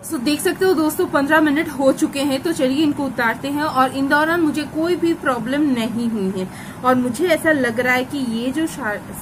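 speaking through a wet face sheet; wearing a sheet face mask. Real, not acted. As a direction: lips framed by mask opening. Seen 0: Sheet mask worn over face while speaking, peeled off near end.

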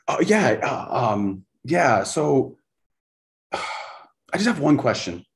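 high, halting voice with a nervous sigh; timid, shy. Retold or imitated. Coach imitating a shy, shocked questioner, timid and hesitant. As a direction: stammer it out, startled and shy. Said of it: "they were incredibly timid, quiet, kinda shy".

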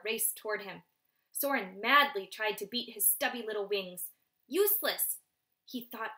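lively read-aloud narration; storyteller voice for children; story narration. A narrator's reading. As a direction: read it to the class with drama. Teacher reads novel aloud.

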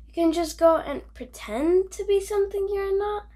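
amazed question. Acted. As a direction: ask in wide-eyed wonder.

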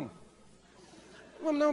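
slow, stretched high "Não vamos não"; drawn-out refusal. Acted. Husband stalling his wife, slow stretched refusal. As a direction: drag the refusal out lazily.

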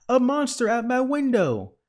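very high, loud wail of alarm; storybook shriek for rescue; frightened shout. A narrator's reading. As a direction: cry out in panic, pitch held high. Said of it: "shouted Baby".

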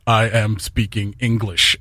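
slow, chewed-over Canadian vowels; mock-chew the words in a lightly garbled Canadian accent. Shown as a demonstration. Showing friends how Canadian sounds in your mouth, slow garbled accent. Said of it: "you start talking like this".

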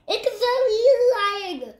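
high, loud alarmed cry; frightened fox. Acted. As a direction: shout the warning in fear. Fox warns of lion.

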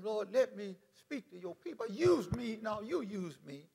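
soft, earnest petition; retold quiet prayer. Preacher retells his prayer to speak, in a soft voice. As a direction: ask the Lord softly. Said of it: "I prayed and asked him".

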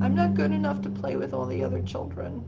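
put-on high, whispered little-girl voice; very small child's voice. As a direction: shrink into a tiny, scared seven-year-old. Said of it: "answer in a very small voice".

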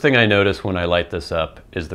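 puffing on a pipe between words; talking around a pipe; pipe stem at lips. Real, not acted. Seen 0: Pipe stem touches lips at 0.4, 1.6, 2.3; otherwise held in hand.

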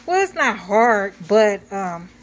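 muffled through a face mask. Real, not acted. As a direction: speak muffled behind a mask. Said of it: "I sound muffled".

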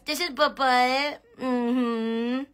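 high, slow doting coo. Real, not acted. Praising her dog on the live, slow high baby talk. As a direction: melt over the puppy, drawn out.

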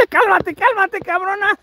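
laughing. Real, not acted. Laughing as she startles awake.

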